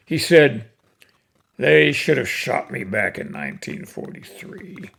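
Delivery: cowboy poem recitation. Acted. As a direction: recite it like a fireside cowboy yarn.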